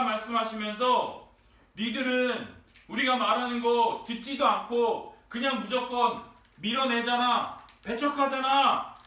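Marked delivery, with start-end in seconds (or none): 1.8-9.0 accusing, building louder to the end; scolding. Retold or imitated. Preacher plays Jesus rebuking those who reject him, accusing. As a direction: press the charge in an acted reproach. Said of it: "지금 두 번째 꾸짖으시는 거고요".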